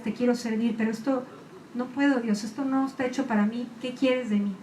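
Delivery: a hint of kneeling in tears; tearful prayer. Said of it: "me fui de rodillas a llorar".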